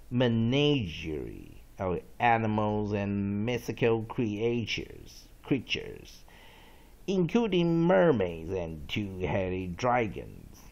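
slow, deliberate dictionary reading; read-along examples. Shown as a demonstration. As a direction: stretch out each phrase for learners. Reads example and origin aloud. (慢速朗读例句)

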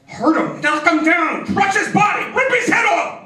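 building from a yell to a high shout; football fan yelling. Retold or imitated. Fan at football game screaming for a hit, building shout.

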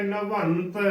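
ਨਵੰਤ with a full nasal n, "navant"; "na-vant", nasal held before the t in ਨਵੰਤ; correct pronunciation. Shown as a demonstration. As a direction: sound the tippi fully in ਨਵੰਤ. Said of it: "ਇਸ ਦਾ ਸ਼ੁੱਧ ਉਚਾਰਨ ਹੈ".

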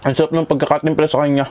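chewing while talking; muffled by food; mouth full. Real, not acted. Seen 0: Cheeks full, lips working; he kept eating before and after.

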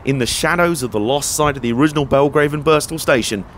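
scripted narration with lifted emphasis; travel voice-over. Acted. Presenter telling viewers about the final leg, voice-over narration.

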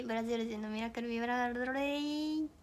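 ブラジル人のミラクルビラ配り said slowly, syllable by syllable; slow careful final attempt; deliberate slow enunciation; slow tongue twister. Shown as a demonstration. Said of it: "言えました".

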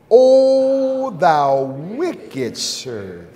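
slow, drawn-out stern rebuke from God; lightly voiced solemn Lord; the Lord rebuking. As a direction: stretch each word like a judge's sentence. Lord's rebuke voiced in sermon.

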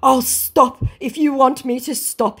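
hammed-up pledge; mock scammer voice. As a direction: scammer declaring, mocked. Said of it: "he declares".

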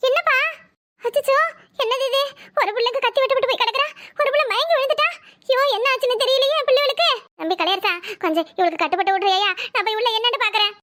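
high, alarmed aunt crying out; panicked aunt. Acted. Aunt hearing a niece fainted, high alarmed cry. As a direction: wail over both girls.

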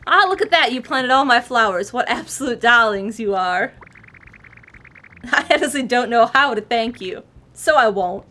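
posh voice. Acted. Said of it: "went with a posh".

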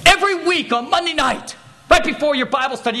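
a hint of spiteful griping; spiteful officer. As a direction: lightly mimic an indignant accuser. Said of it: "who was just particularly spiteful".

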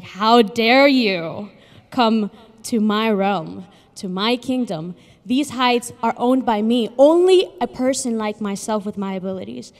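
loud, slow furious roar. A narrator's reading. Condor furious that the snail reached his peak, loud and slow. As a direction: rage at the intruder, drawn out. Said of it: "The condor was furious".

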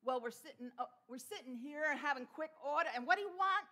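imitated Texas twang, lifting at the end; Texan cousin's twang. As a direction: talk like a Texan cousin taking an order. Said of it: "one of my cousins saying".

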